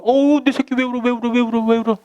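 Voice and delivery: high, cooing mock mom; a mother soothing her crying child, voiced high and sing-song; comforting mother. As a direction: coo over the child like a fussing mother.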